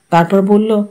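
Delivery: plain reading voice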